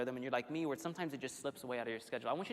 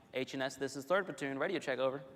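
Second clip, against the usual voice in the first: radio call, crisp and clipped; crackly military radio. Retold or imitated. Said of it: "it would sound something like".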